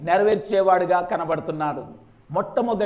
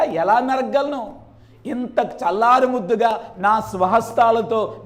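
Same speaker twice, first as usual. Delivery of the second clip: pleading father. Pretend. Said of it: "అని అనాల్సింది".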